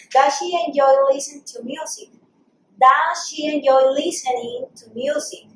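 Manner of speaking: slightly slowed, careful teacher English; repeat-after-me model. Shown as a demonstration. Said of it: "repeat after me".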